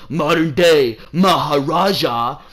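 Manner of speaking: hammed-up Punjabi accent on a grand title; mock Punjabi accent. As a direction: imitate a Punjabi-accented champion's boast. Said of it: "he does the fucking accent".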